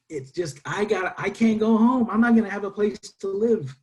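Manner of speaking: rising to a loud, high plea at I can't go home; desperate plea. Retold or imitated. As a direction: beg the admissions office, building urgency. Pleading to admissions office.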